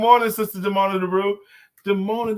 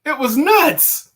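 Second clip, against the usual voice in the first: slow punchline; 9 semitones higher, 7 dB louder, slower than usual. Acted.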